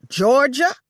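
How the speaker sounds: high, loud scream of her name. Acted. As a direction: scream it right in her face. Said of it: "Lola screamed in my face".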